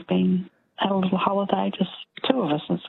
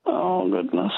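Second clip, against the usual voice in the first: ordinary talk, nothing marked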